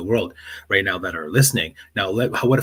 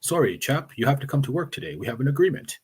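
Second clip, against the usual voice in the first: higher-pitched mock English accent; worst English accent; 6 semitones higher than usual. Guest mimics colonial boss telling worker about agreement, worst English accent. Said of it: "here's my worst English accent".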